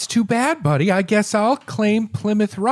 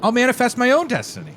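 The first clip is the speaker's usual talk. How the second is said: smug; 7 semitones higher, faster than usual. Acted. Ray boasts.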